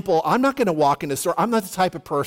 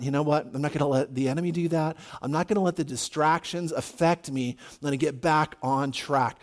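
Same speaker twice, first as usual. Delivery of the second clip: lower, softer, self-directed resolve; quiet resolve; 4 semitones lower, 6 dB quieter than usual. Retold or imitated. Preacher telling himself to get back on track, quietly resolute. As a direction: talk yourself down quietly. Retold resolve after losing temper.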